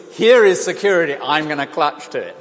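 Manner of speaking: put-on loud, high cry of a frightened child grabbing his dad; frightened boy clutching his father, loudly voiced; scared child clinging. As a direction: call it out as if clinging for dear life. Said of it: "what he did was".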